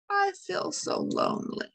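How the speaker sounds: a small sad mouse sighing it; lonely little mouse. Acted. Mouse says she is lonely.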